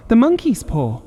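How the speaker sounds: high, loud frantic cry; wild cry. Acted. Wife cries out to husband, high and loud. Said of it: "she cried wildly".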